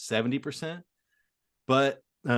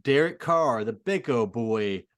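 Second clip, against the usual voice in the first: mock Southern accent; 2 semitones higher, 4 dB louder, much slower than usual. Teasing Derek Carr's Southern accent to his co-host, slow and hammed-up. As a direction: drawl it out like a Southern quarterback in a Southern accent. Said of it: "like, Southern accent".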